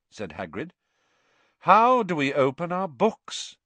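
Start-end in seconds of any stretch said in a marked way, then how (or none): 1.6-3.6 drawling. A narrator's reading. Malfoy repeating his challenge to Hagrid, drawling. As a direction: repeat it louder, with disdain. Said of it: "drawling voice of Draco Malfoy".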